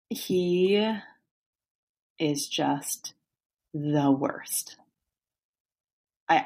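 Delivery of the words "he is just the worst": whispered. Real, not acted. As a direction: whisper it in disgust. Disgusted verdict.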